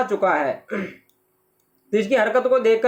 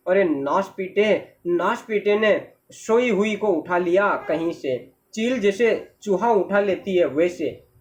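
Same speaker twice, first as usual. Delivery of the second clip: slow, understated indignant cursing; 3 semitones lower than usual. Acted. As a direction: curse the kidnapper in a slow, heavy reproach. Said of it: "वो गाली दे रहा है". (धीरे-धीरे कोसते हुए)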